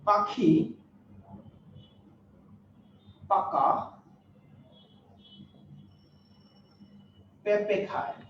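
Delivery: each word set apart with long pauses; slow dictation. Shown as a demonstration. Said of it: "আরেকটা sentence লিখলাম". (থেমে থেমে শ্রুতলিখন)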